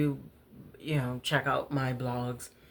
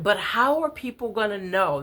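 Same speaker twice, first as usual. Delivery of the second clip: put-on high, upset child's wail, a bit louder; tearful child; 7 semitones higher, 4 dB louder than usual. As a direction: plead like a crying little girl. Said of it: "real tears are just pouring out".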